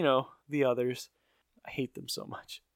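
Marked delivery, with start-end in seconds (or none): 1.6-2.6 soft, drained deadpan; so done. Real, not acted. Podcaster fed up with stupid catchphrases, drained and done. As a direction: say it with all your energy gone, quietly. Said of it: "your energy level is just, you're just so done".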